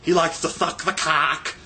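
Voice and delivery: slow, drawn-out caricature of name-callers; hammed-up mimicry of jeering people; mocking hecklers. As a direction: stretch the taunt out, building to a high, silly wail. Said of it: "I don't know why people are like".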